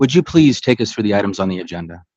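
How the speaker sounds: loud and clear over a bad line. Real, not acted. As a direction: raise your voice so the caller hears. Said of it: "Sorry, you're breaking up a bit".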